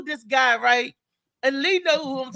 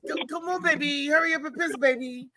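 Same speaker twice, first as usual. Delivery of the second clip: imitating a pimp. Man calling to his two dogs, lightly playing a pimp. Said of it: "That's what he told the dogs".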